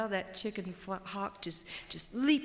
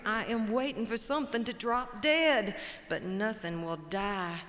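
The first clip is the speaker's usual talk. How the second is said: mournful buzzard; 2 semitones higher than usual. Acted. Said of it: "Buzzard says".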